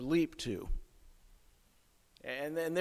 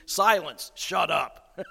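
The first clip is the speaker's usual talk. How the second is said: crass rebuke; 4 dB louder, slower than usual. Retold or imitated. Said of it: "maybe he wasn't that crass".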